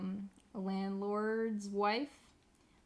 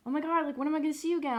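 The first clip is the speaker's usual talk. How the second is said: excited high voice; 6 semitones higher, 3 dB louder, much faster than usual. Retold or imitated. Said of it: "they're like".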